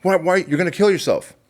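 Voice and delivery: high, loud desperate plea; urgent pleading shout. Pretend. Stranger begging a man with a gun to stop, frantic pleading shout. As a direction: yell at him to stop, frantic. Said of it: "wouldn't Charlie run up to them and go".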